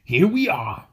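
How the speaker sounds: weary dwarf leader, slow and high; lightly voiced tired dwarf; gruff gravelly dwarf voice. A narrator's reading. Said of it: "said Thorin".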